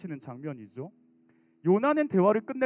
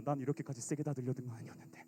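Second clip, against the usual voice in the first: put-on startled teen; 4 semitones lower, faster than usual. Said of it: "들어가서는 놀래잖아".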